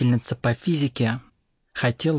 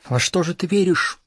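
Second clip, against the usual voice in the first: raised, higher-pitched cry; exasperated shout; 7 semitones higher, 6 dB louder than usual. A narrator's reading. Teacher losing patience with a stubborn pupil, shouting. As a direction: cry out the question, louder and higher. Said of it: "закричала учительница".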